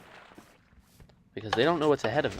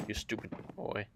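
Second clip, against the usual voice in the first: creepy narrator. Acted. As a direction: tease the listener in a mildly creepy monotone. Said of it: "Right now I'm sounding creepy".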